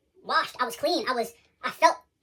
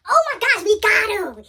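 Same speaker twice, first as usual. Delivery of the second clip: gloating enemy; 7 semitones higher, 7 dB louder, slower than usual. Retold or imitated. Enemy gloating, laughing at him.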